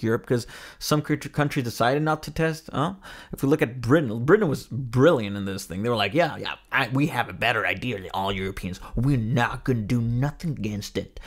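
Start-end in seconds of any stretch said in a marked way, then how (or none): 6.1-11.2 hammed-up bad English accent, slowing at the end; botched English accent. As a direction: try an English accent and miss it. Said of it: "oh, now that's not an English accent".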